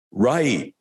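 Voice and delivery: soft, confident and joyous; a quiet, certain, happy answer; soft joyous right. Retold or imitated. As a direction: let it burst out softly, fully sure. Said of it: "It's kind of soft, a little soft".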